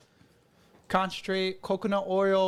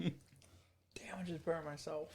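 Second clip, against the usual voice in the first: talking through a burnt mouth; words around hot food; mouth full of hot food; 3 dB quieter than usual. Real, not acted. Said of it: "my lips are on fire".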